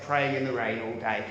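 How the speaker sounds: mock humble. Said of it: "very modestly and humbly say".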